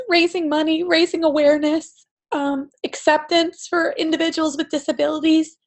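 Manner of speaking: crying through the words; ugly cry. Real, not acted. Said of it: "bust out the ugly cry".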